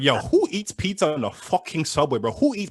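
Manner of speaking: a hint of a tough Toronto dude; lightly voiced judgmental dog; mild mock street-tough scolding; imagined Scarborough dog. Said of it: "that dog's from Scarborough".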